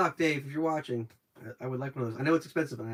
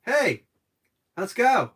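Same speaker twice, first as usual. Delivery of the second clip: Mario; 3 semitones higher, 5 dB louder, much slower than usual. Retold or imitated. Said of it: "then Mario opens his mouth".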